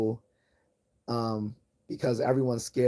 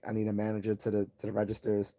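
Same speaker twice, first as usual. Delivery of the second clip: calm intercom voice; 3 dB quieter, faster than usual. Shown as a demonstration. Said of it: "I just talk calmly".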